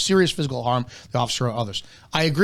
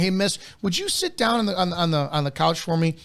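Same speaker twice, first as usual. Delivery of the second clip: higher, gentle polite officer asking a woman to sit; polite request; 4 semitones higher than usual. Retold or imitated. Officer showing the calm way to enter a domestic, polite and higher. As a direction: coax her onto the couch politely.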